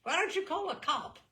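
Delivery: high, loud indignant challenge; indignant protest. Acted. Umbrella owner challenging the thief, indignant and loud. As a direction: throw it back at him, offended.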